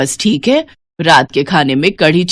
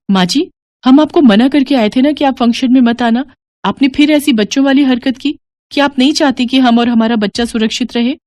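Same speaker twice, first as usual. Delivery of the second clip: mildly angry, raised scolding bahu; 4 semitones higher than usual. Acted. Daughter-in-law scolds the mother-in-law for coming, mild anger. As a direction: tell her off, higher and sharper.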